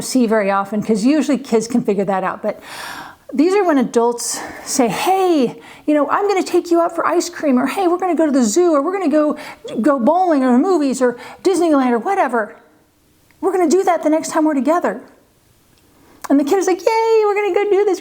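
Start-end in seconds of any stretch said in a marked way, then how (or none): 4.9-15.0 higher, casual promising adult voice; breezy adult promise. Retold or imitated. Parent imitating relatives making easy promises. 16.8-18.0 put-on high, thrilled little kid cheering; excited kid. Parent imitating a thrilled child promised a trip. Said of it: "They're all excited".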